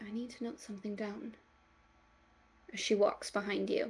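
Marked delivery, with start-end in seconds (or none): 0.1-1.3 very quiet, barely audible mumble under breath. Voicing a woman muttering a few footsteps behind the listener: very soft mumble. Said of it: "You just very softly".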